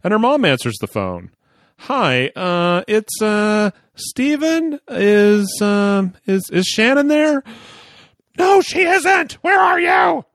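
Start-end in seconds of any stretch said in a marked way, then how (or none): 1.8-7.4 put-on high, hesitant nervous kid; nervous teen voice. Nervous teen calling girlfriend's mom. 8.4-10.2 high, loud furious mother; angry mom shout. Retold or imitated.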